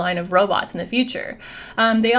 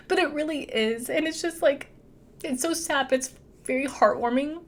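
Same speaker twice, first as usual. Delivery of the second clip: higher, halting, tearful voice; real crying; 5 semitones higher than usual. Real, not acted. Recapper explaining it's sad but heartwarming, tearful. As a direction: get choked up mid-recap. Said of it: "I'm crying".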